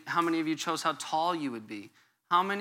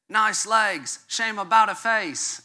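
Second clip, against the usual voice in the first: put-on British accent, pitched up and louder; bad British accent, higher and punchier; 6 semitones higher, 4 dB louder, slower than usual. Shown as a demonstration. Pastor quotes a seventies song chorus, terrible British accent. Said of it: "do it with the British accent".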